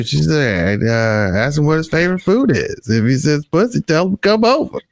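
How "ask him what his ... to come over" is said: higher-pitched quote of a film line; lightly acted film quote; movie character's line. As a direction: deliver a favorite movie line, voice lifted. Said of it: "My favorite line, Keira Sedgwick".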